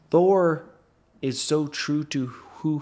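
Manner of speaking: Thor called out loud and high; an excited shout of Thor; excited hype. Real, not acted. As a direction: belt the name like a fan. Hyping up his hero.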